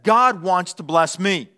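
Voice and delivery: lightly voiced cat, slow and assured; mildly self-important, stretched out; self-centred cat. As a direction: proclaim it slowly as a hint of a cat. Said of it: "Here's a cat's mindset".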